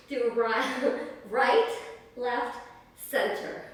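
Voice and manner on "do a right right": chuckling through the count; laughing. Real, not acted. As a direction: laugh at her own mix-up. Laughs at changing the routine.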